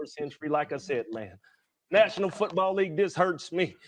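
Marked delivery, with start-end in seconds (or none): 1.9-3.8 higher, louder, voice straining; emotional plea. Acted. Player on TV pleading to the league, voice straining. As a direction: plead as if hurt to the core.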